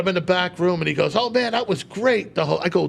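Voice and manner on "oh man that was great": higher-pitched imitation of a pleased host; mock the host's clueless compliment; oblivious praise. Host congratulating comic after bad set, oblivious praise.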